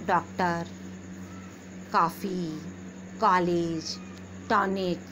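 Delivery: कॉफ़ी said with the open ऑ, halfway between आ and ओ; slow careful demo of the ऑ sound; open o vowel. Shown as a demonstration. Teacher showing pupils how to say the words. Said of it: "कैसे बोलेंगे?".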